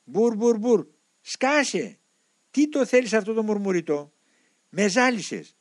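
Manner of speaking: high, mocking demon outburst; raging demon. A narrator's reading. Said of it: "το δαιμόνιο συνέχιζε". (έξαλλος δαίμονας με ψηλή φωνή)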